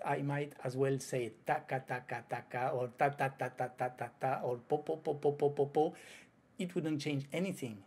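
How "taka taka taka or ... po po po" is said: even syllables with no accent. Shown as a demonstration. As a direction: say them flat and even, no stress. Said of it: "If I don't put the accent".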